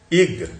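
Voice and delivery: इग said alone as a separate syllable; isolated syllable. Shown as a demonstration. Teacher counting syllables for students, isolated demonstration. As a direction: sound out इग by itself. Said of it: "हमारे पास syllable कितने हैं?".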